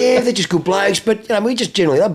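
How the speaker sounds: high, laughing mock-innocent reply; laughing quote. Client covering for himself to his wife, laughing. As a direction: play innocent through laughter. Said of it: "And he's like".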